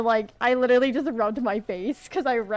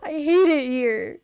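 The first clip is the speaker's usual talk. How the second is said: loud, high, slow screeching wail; pterodactyl shriek; 4 semitones higher, 7 dB louder than usual. Real, not acted. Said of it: "That was my pterodactyl screech".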